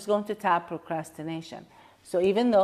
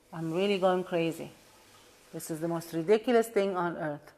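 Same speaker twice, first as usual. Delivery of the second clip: acted anger. Shown as a demonstration. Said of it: "I'm gonna use angry".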